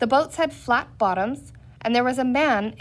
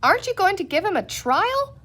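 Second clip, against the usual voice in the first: shouted; 9 semitones higher than usual. A narrator's reading. Penny shouts at the ringleaders to stall them. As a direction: call up to the mob to stall them. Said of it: "She shouted at the ringleaders".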